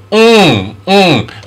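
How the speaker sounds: "mm" as a held "ng" from the back of the throat; ng sound. Shown as a demonstration. Teacher showing where the sound comes from, "mm" as a long ng. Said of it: "comes from the back of your throat".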